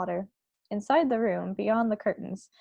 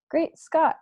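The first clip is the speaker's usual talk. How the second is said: startled exclamation, higher and louder; shocked cry; 6 semitones higher, 4 dB louder than usual. Acted. Queen reads the headline, a startled cry. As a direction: blurt it out in shock. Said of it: "cried the famous voice".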